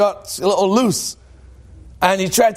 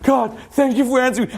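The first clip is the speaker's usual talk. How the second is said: higher-pitched, gushing thanks; acted amazement; 5 semitones higher than usual. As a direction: act out awed gratitude. Climber thrilled that God answers.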